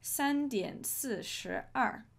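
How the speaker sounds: 放慢速度念三点四十二; 每个音节都念清楚; slow clear example. Shown as a demonstration. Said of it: "if we were saying three forty-two".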